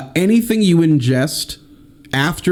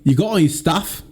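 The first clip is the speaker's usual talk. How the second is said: put-on Scottish accent; 3 semitones higher than usual. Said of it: "Oh, that's pretty good".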